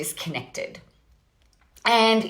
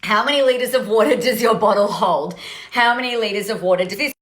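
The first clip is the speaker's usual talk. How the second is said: put-on American accent, louder; 4 dB louder, faster than usual. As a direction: push the American accent harder. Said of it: "I'm talking in American accent".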